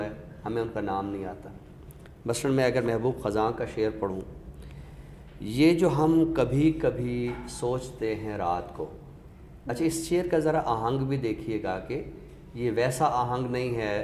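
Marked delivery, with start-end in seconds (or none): 5.4-8.9 measured ghazal recital, a touch of weight; slow poetic recitation. Acted. Critic quoting a couplet for the listener, slow recitation. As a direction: recite the couplet slowly, savouring each word.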